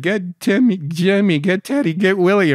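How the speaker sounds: loud, high call across the lot; hollering names to round up the crew; calling out to buddies. Retold or imitated. Man shouting for his buddies to come buy Jeeps, loud call.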